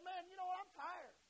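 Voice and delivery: pretend-fed-up sigh of a long day; hypothetical Jesus brushing off the leper, weary; tired complaint. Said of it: "Jesus could have said".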